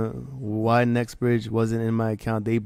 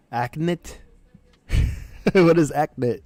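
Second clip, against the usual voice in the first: confused surprise; 5 semitones higher, 5 dB louder than usual. Real, not acted. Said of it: "The accent?".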